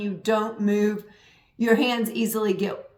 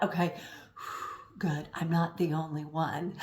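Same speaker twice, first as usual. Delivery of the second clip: relieved inner thought; 6 semitones lower, 10 dB quieter than usual. Retold or imitated. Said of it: "And so I thought".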